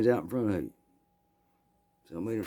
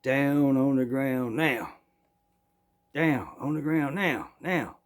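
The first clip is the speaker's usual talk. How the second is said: slow, drawn-out barked order, voice raised high; hollered command; 5 semitones higher, slower than usual. Retold or imitated. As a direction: bark each word slowly like a lawman with a shotgun. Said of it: "I hollered out immediately".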